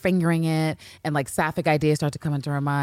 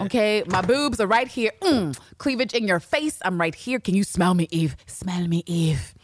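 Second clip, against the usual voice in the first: seductive tease; 2 semitones higher than usual. Retold or imitated. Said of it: "she was like".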